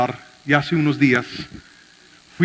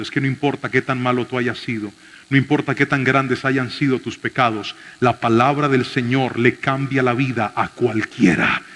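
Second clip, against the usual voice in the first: ordinary delivery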